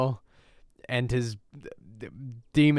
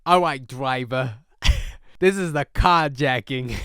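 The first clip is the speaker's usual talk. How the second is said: a light mock New York tough-guy accent; 5 dB louder than usual. Mocking the hijacker's dub voice, light New York accent. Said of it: "like, a New York accent".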